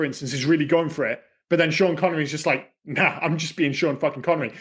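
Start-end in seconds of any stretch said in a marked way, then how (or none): none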